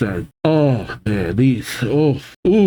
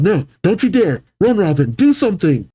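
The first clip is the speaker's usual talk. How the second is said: mock cry out; 5 semitones higher than usual. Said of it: "Usopp cries out".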